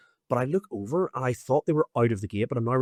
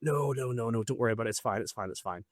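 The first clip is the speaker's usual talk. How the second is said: quick brush-off trailing into softness; imitating someone insisting all is well; mock reassurance; 5 dB quieter than usual. Brushing off concern, retold voice.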